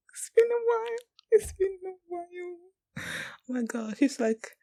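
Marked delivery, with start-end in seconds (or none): 0.1-1.0 much higher whispered repeat; mock high echo. Viewer echoing a character's line in a high whisper. 1.3-3.0 higher, slow sung-out repeat; playful drawn-out echo. Pretend. Viewer savoring a character's line, slow and high.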